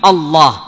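الله with a heavy, dark double L; emphatic tafkhim. Shown as a demonstration. Teacher showing students the tafkhim in Allah, heavy L. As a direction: say الله with the L full and velarized. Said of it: "جاء ما يسمى بالتفخيم".

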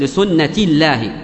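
لسنة joined to الله with a spoken t; linked t. Shown as a demonstration. Teacher showing the joined form, لسنة linked by a t. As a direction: say لسنة الله as li-sunnati llahi, t sounded. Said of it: "تنطقها تاء".

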